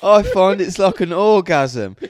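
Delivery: high, loud mock client voice; mock woman voice. Tattooist mocking a client who claims pleasure, loud and high. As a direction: parrot her daft claim loudly. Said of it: "she goes".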